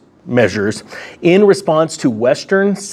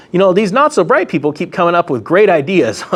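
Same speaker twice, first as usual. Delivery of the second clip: sarcastic; 3 semitones higher than usual. Real, not acted. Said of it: "I sense the sarcasm".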